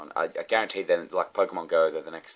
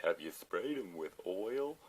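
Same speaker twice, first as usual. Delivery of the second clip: clueless question; 3 semitones higher, 4 dB quieter, slower than usual. Retold or imitated. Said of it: "say dumb shit like".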